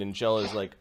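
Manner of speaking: ordinary delivery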